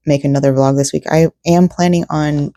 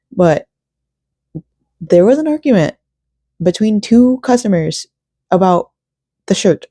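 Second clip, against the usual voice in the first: higher, storytelling drama; dramatic gossip; 4 semitones higher than usual. Real, not acted. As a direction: tease the juicy story.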